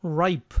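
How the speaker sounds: "Ripe" said ɹaɪp. Shown as a demonstration. Teacher repeats the model for students, careful. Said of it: "más fácil para leerla".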